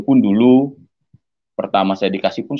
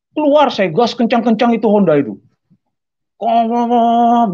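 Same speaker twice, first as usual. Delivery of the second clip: imitated engine roar; 10 semitones higher, 4 dB louder than usual. Man revs his noisy motorbike outside church, engine sound. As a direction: rev the engine with your voice.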